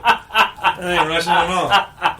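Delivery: slow words through laughter; laughing. Real, not acted. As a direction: laugh while protesting. Laughing at robot voice.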